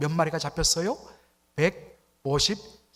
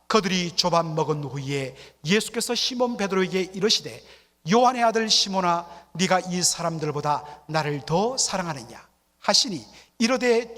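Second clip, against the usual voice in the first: read aloud together; 4 dB louder than usual. Shown as a demonstration. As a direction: lead the room in reading it out loud. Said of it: "우리 다 함께".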